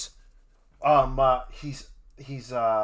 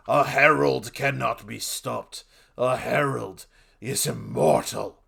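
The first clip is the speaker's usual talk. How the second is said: lightly raised robotic herald cry; mild mock scream; 5 dB louder than usual. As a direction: declare it, a touch louder. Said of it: "he screams".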